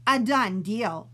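declaring. Acted. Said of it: "declared Emily".

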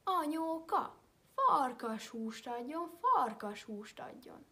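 put-on loud slow chant of a child; children shouting. Mother teaches children to shout it out. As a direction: call it out like a child. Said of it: "kiabáljátok".

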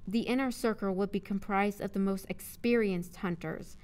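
measured audiobook narrator; narrating prose, carefully enunciated; story narration. A narrator's reading. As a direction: read the story aloud clearly.

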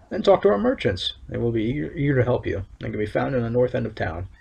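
lightly voiced stern official, measured and solemn; town overseer. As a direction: read it as a proud town overseer laying down the law. Reads overseer's NPC lines.

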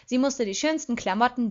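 ordinary delivery, nothing marked

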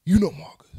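loud host announcement; host intro. Acted. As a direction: announce your name big. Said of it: "I am your host".

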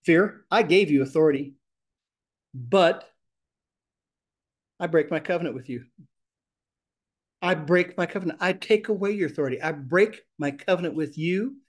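firm command. Shown as a demonstration. Teacher showing the group how to rebuke fear. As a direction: speak to it like you own the room. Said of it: "So we talk to it".

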